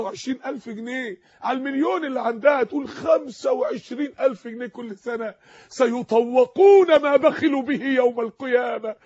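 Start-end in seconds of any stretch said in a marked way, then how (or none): 2.9-9.0 preaching the verse, slow and loud; forceful quote. Real, not acted. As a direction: proclaim the warning to the hoarders. Preacher quotes Quran verse loudly.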